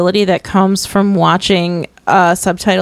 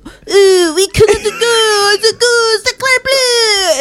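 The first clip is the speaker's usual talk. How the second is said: put-on high, slow, wailing French accent; hammed-up French brother, high and drawn out; mock French accent; 10 semitones higher, much slower than usual. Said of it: "one of her brothers was like".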